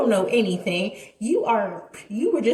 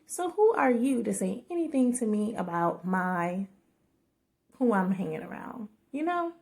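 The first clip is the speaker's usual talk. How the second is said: quiet voiceover; 5 dB quieter than usual. Real, not acted. Editing her vlog, she narrates the argument in a softer voiceover. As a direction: murmur it like a late-night edit voiceover. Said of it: "Voiceover time".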